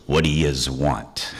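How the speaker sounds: gruff New York "yez" dragged out slowly; mild New York tough-guy imitation; New York accent. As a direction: growl it like a doorman behind a chained door. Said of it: "I hear this voice go".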